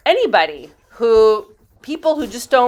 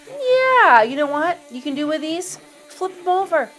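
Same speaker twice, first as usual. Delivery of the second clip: much higher, bright idea popping up; excited inner voice; 8 semitones higher than usual. Retold or imitated. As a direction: voice your own sudden clever thought, pitched way up. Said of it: "I thought to myself".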